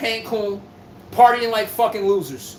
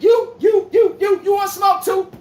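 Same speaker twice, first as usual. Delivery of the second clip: challenging shout; 8 semitones higher, 3 dB louder, slower than usual. Real, not acted. Calling out a rival player.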